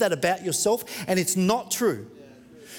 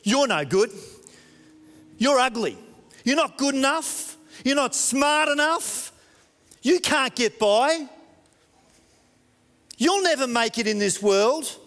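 mocking shout; 5 semitones higher than usual. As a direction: hurl the insults like the world mocking. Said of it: "So the world shouts at us".

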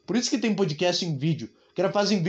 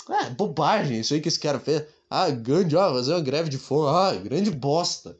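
mock dismissive; 3 semitones lower than usual. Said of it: "o cara tá satirizando Gandhi".

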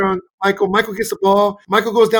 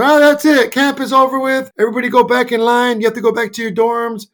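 lightly voiced camp director, a little higher; camp director announcing; 3 semitones higher than usual. Camp director sends players back to dorms, mildly announcing. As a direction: make a mild announcement to end the session. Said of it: "the director of camp gets the microphone and says".

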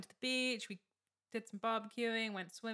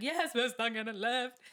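panicky; 3 semitones higher, 5 dB louder than usual. Retold or imitated. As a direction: blurt it out, panic breaking through. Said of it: "I'm trying to be calm".

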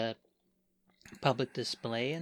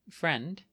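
"friend" set apart after a pause, pitch lifted and rising; pointed tone on "friend"; 4 semitones higher than usual. Acted. Minerva carefully naming Fern's companion, pointed rising "friend". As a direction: lean lightly on "friend", lifting it like a tentative question. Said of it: "says the word friend with that kind of tone".

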